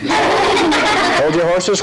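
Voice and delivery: slow drawn-out puzzled question; puzzled echo. Acted. Officer echoes the dummy, slow puzzled question. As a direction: stretch it out in confusion.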